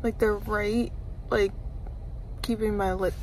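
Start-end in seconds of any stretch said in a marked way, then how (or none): 1.3-3.1 talking with finger on lip; finger holding lip down. Real, not acted. Seen 1: Finger holds lower lip down showing braces, gone by +0.8.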